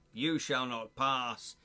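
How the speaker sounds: slow, grand film-quote delivery; hammed-up solemn command; mock wizard declamation. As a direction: proclaim it like a wizard blocking the way. Gandalf quote riffing on Sir Ian.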